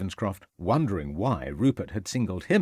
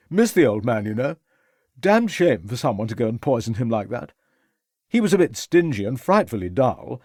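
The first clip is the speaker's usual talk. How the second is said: put-on brash young gentleman, a bit tipsy; young toff voice; 5 dB louder than usual. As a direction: careless upper-class young man.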